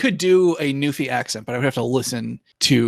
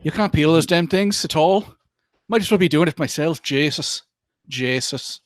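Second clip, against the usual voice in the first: quick, lightly voiced Newfoundland accent; Newfie accent. Guest reads a potato-peeling clip, mild Newfie accent. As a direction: do a rough Newfie grumbling over potatoes. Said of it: "video called Newfie Peels Potatoes".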